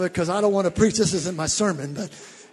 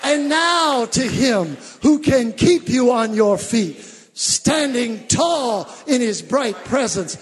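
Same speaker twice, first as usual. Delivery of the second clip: slow scripture reading; 2 semitones higher, 4 dB louder, slower than usual. Shown as a demonstration. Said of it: "let's read it".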